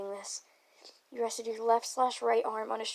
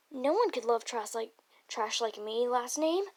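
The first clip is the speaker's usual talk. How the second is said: lightly raised voice, climbing at the end; mild yell; 5 dB louder than usual. Acted. Nagito protesting that he is trash, a mild yell. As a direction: yell it half-heartedly, lifting the last words. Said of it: "he yelled".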